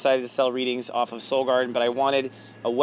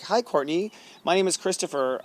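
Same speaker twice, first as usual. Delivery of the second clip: higher-pitched eager hello, re-enacted; retold polite introduction; 5 semitones higher than usual. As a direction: act out introducing yourself to a star. Voices his introduction to a celebrity.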